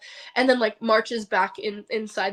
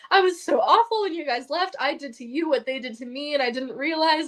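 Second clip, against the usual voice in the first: retold sobbing; 3 semitones higher than usual. Confessing to Samantha on the phone, mildly distraught. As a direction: pour it out, a touch tearful. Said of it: "just ranting and just sobbing".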